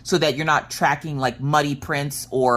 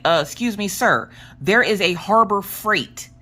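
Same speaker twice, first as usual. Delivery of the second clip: mock formal correction; 7 semitones higher than usual. Correcting husband in a retold argument.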